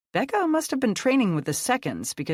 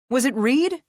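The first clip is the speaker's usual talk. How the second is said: urgent question; 9 semitones higher, 6 dB louder than usual. Acted. Anxious question mid chase.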